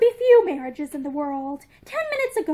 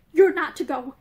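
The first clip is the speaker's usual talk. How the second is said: hoarse, urgent and insistent; 5 dB louder than usual. Acted. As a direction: rasp it out hoarsely. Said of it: "he said hoarsely".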